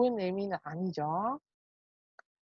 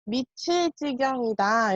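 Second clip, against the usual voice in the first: slow emphatic model; 3 dB louder than usual. Shown as a demonstration. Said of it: "이렇게 이야기해요".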